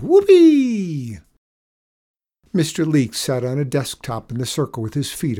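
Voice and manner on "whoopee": long high, loud whoop; called out. A narrator's reading. Boy riding a bucking chair, calling out. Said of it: "he called out".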